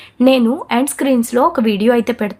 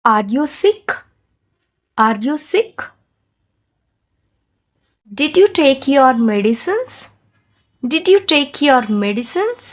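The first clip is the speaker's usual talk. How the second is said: very slow, clearly spaced words; slow, careful model for repeating; slow shadowing model; much slower than usual. Shown as a demonstration. Teacher models questions slowly to shadow. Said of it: "high and low-గా చెప్తాను".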